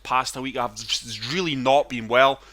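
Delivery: chesty, wheezy from pneumonia; sick voice, a bit of wheeze; rattly chesty voice. Real, not acted. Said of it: "So sorry if I sound chesty or wheezy or just not right".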